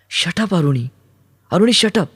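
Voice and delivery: high-pitched outburst, climbing on the repeat; distressed yell. A narrator's reading. Kaumudi silences Aruni with a hand on his mouth, yelling. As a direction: cry out to stop him. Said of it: "Kaumudi ओरडली".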